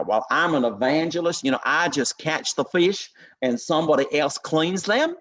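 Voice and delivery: breezy American accent, lightly put on. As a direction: mimic an American evangelist, lightly. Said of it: "I've only ever heard an American say that".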